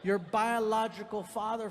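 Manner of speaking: slow deliberate. Retold or imitated.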